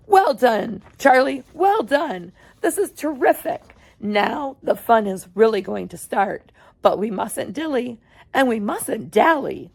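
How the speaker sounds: bubbly, eager showman voice; a delighted chocolatier urging them on; excited Mr Wonka. Acted. Wonka speaks to Charlie.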